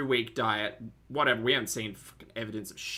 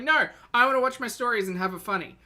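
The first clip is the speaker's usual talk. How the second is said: excited; 9 semitones higher, 5 dB louder, faster than usual. Retold or imitated. Retold inner reply, excited.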